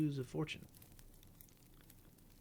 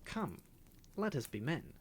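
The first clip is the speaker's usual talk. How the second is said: imitating the parrot; 5 semitones higher than usual. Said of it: "involuntarily imitating the chatter of the parrot".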